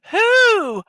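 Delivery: high owl hoot on who. Pretend. Streamer hoots back at chat like an owl. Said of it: "Someone said I sound like an owl".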